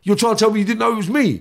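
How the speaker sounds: high, loud disbelieving challenge; retold screaming match. Inmate confronting a man behind him, high irate disbelief. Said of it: "a bit of a screaming match".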